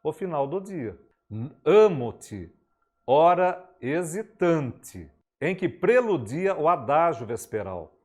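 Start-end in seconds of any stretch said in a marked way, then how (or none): 1.7-8.0 "hora hesitante" drawn out, recited slowly; slow poetry recitation. Shown as a demonstration. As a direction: linger over "hora hesitante" as you declaim. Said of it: "Agora faremos uma leitura".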